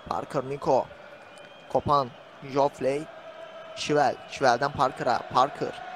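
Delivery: commentator's running call of the players; live play-by-play. Real, not acted. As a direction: call the match as it unfolds, name by name. (canlı maç anlatımı)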